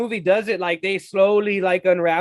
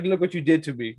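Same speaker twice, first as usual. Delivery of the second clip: lower, soft accusing line; creepy creature voice; 4 semitones lower, 4 dB quieter than usual. Retold or imitated. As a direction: accuse her, a bit eerie. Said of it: "he was like".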